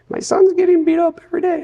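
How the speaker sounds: put-on high, loud Polish accent. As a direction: imitate a Polish mother's heavy accent. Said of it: "she had this very heavy Polish accent".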